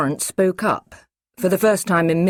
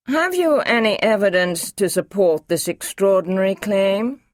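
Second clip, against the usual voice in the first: a touch higher, doubting official; Masters, sceptical official; 5 semitones higher, 4 dB louder than usual. Acted. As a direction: press him for proof, lightly voiced. Masters questions the doctor.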